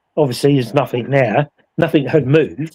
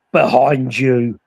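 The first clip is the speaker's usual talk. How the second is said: menacing deep voice; 3 semitones lower, much slower than usual. Retold or imitated. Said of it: "in a real deep man's voice, really menacing voice".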